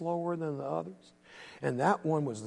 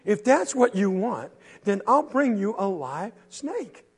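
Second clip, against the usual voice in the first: high challenge; 9 semitones higher, 4 dB louder than usual. Acted. Quentin challenges, Henry gives in.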